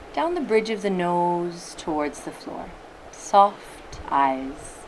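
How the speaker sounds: unhurried meditation guide, long pauses between phrases; guided meditation. Acted. Teacher settling listeners into their meditation posture, guided meditation voice. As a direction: ease them gently into stillness, leaving space.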